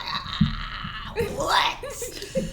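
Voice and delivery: high laughing disbelief; shocked. Retold or imitated. Hearing the partner let others watch, shocked high what. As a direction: jaw drops at the news.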